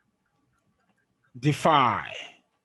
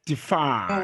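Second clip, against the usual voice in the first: light DE, then stressed FY in defy; stress on second syllable. Shown as a demonstration. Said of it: "Did you see it here?".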